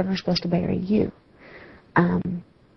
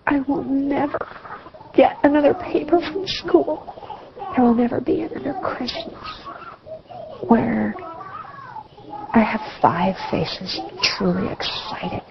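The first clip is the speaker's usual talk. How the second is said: choked-up crying; 6 semitones higher than usual. Real, not acted. Grieving mother lists lost moments.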